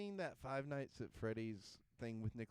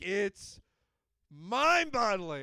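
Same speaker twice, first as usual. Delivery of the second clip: incredulous; 5 semitones higher, 12 dB louder, much slower than usual. Real, not acted. Ranting about silent Nicolas Cage.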